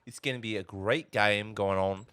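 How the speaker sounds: British attempt slipping into Australian; attempted British accent. Co-caster failing a British accent while casting the game. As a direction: try British and land on Australian. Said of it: "No, that's Australian".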